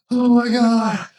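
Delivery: high, breathless oh my God; retold excited gasp. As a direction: relive the thrill of the kill. Retelling his own reaction.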